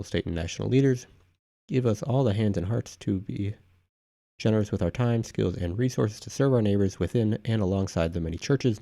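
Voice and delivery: steady, even read-aloud of a formal prayer. Real, not acted. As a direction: read out an official prayer proclamation evenly. Reads a prayer proclamation aloud.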